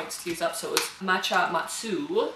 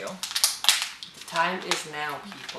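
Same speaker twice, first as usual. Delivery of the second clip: dramatic proclamation; much slower than usual. Pretend. Dramatic announcement to viewers.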